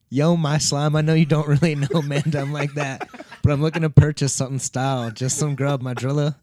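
London roadman slang voice, loud; reading it out as a London roadman; london roadman accent. Retold or imitated.

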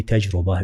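تجربة with the ra said with u, tajruba; تجربة as the colleagues say it, tajruba; wrong damma. Shown as a demonstration. Colleagues' common mispronunciation, تجربة as tajruba. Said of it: "بضم الراء".

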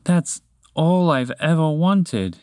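slow, contented sigh of a line; deep contentment. Acted. Moose tells his new friends, slow and content. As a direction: savour it slowly, at peace. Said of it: "with deep contentment in his voice".

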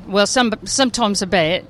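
light, tentative Australian accent; attempted Australian accent. Shown as a demonstration. Guest showing the hosts her attempt at an Australian accent. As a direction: have a modest go at an Australian accent. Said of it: "have you attempted an Australian accent".

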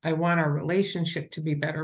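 sincere, caring appeal; acted-out caring plea to a partner; compassionate. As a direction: appeal gently, without blame. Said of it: "It's of compassion".

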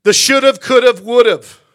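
loud, emphatic should've could've would've; emphatic list. Real, not acted. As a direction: hammer each regret out. Punchline emphasis.

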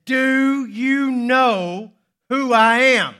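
loud, high, slow indignant shout; outraged student, drawn out at full volume; angry. Acted. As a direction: bellow it word by word. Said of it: "The young man grew more angry".

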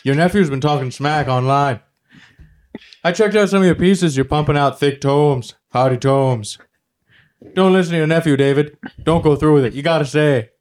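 lightly voiced Robin Williams; hint of a cheery celebrity cameo message. Comic doing a cameo message to David in a light Robin Williams voice.

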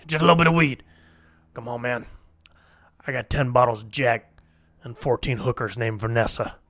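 put-on voice, wheedling negotiator; Dennis Rodman. Rodman bargaining with Putin for Brittany's release, put-on impression. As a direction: impersonate a celebrity casually haggling for a prisoner. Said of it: "it's almost Gavin Newsom-esque".

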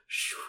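fabric swoosh sound. Shown as a demonstration. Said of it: "it goes".

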